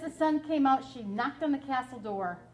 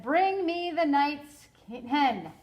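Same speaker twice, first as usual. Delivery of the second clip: giant's command; 3 semitones higher, 5 dB louder, much slower than usual. Acted.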